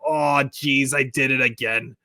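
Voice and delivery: a comic, hammed-up shame; ashamed Don Zimmer. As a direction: apologize like a scolded old man. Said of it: "And he'd get up and go".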